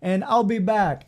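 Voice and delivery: put-on slow, loud, high Italian accent; hammed-up Italian clerk, drawn out and high; mock Italian accent. Airport lady telling passenger to wait, mock Italian accent. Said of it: "No, it's Italian".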